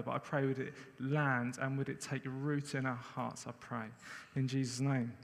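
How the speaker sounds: earnest spoken prayer to God. Acted. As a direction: pray over the room, sincerely. Leads the congregation in prayer.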